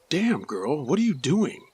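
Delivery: retold yell. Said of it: "just yelled out".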